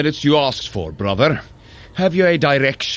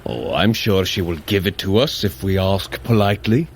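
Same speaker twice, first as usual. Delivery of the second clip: deadpan, lower and mocking; sarcastic, with a straight face; dry sarcasm; 5 semitones lower than usual. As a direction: say it as a sly jab at his brother. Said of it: "you're getting better at that".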